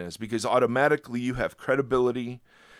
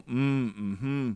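encouraging mm-hmm. Shown as a demonstration. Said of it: "you'll hear me go".

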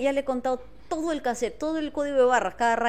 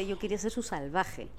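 laughing quote; 3 semitones lower, 9 dB quieter than usual. Retold or imitated. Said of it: "yo decía".

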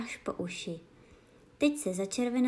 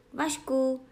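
courier shouting; 4 semitones higher, 4 dB louder than usual. A narrator's reading. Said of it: "křičel kurýr".

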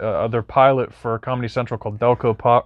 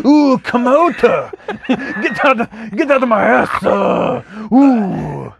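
high, slow, hammed-up Asian accent; yelled in an exaggerated Asian accent; 9 semitones higher, 3 dB louder, slower than usual. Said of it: "you start speaking in a fucking Asian accent".

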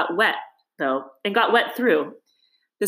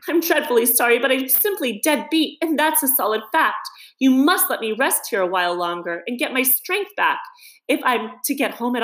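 higher, pleading voice of a worn-out mole; tired Mole; 5 semitones higher than usual. Acted. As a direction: beg for rest, dead beat and sorry. Exhausted Mole pleads to rest.

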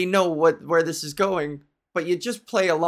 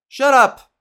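loud higher snap; mock snapped shut up; 6 semitones higher, 8 dB louder than usual. Scolding a shirt-waving fan, a loud snap. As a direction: bark it to shut him down.

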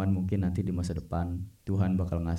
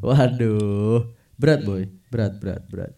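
loud groan of dismay; 3 semitones higher, 7 dB louder than usual. Real, not acted. Reacting to a heavy topic.

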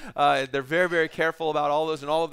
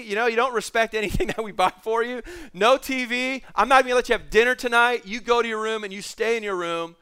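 angry mother; 4 semitones higher than usual. Retold or imitated. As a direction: send him off to his room. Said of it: "going after her son".

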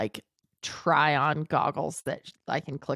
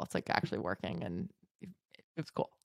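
whispering; 10 semitones lower, 14 dB quieter, faster than usual. Retold or imitated. Whispered aside in retold thought.

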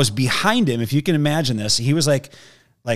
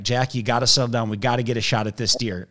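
low, restrained coaxing; retold calm urging, slightly hushed; trying to be calm; 3 semitones lower, 4 dB quieter than usual. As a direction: imitate keeping your cool with a nervous kid. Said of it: "I'm trying to be calm".

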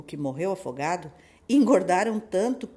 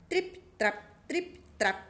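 light footsteps; 8 semitones higher, slower than usual. A narrator's reading. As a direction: tiptoe the steps in a whisper. Smallest goat crossing bridge. (passos leves sussurrados)

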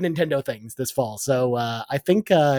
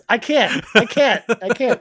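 laughing; 5 semitones higher, slower than usual. Real, not acted. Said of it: "you're killing me".

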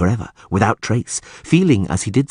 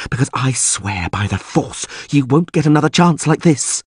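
tempting sorceress; 8 semitones higher than usual. A narrator's reading. Djinn-voiced sorceress tempting the Witcher.

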